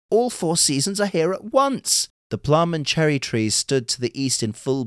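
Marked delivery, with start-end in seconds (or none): 0.1-2.1 high, wonderstruck exclamation; excited cry. A narrator's reading. Urashima shows his bride the four seasons, crying out in wonder. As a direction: marvel aloud at a much higher pitch. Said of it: "he cried to his bride".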